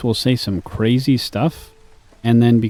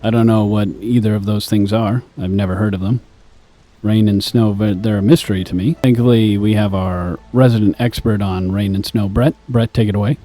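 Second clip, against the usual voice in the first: lightly voiced radio weather host; a hint of radio presenter, handing over to a colleague; mock radio voice. Streamer mimicking a radio host reading the weather, mock radio voice. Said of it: "if I was gonna do a radio voice".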